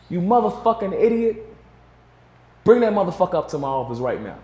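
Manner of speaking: imitating Suge's furious outburst, high on the first words; mock boss yelling down the phone; furious cussing. Suge on the phone to the driver, cursing him out in a high yell. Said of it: "just cussing on the phone".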